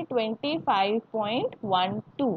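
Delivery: "वन टू" said as two separate digits; digit-by-digit reading. Shown as a demonstration. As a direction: read out "वन टू" one digit at a time. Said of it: "कैसे read करेंगे".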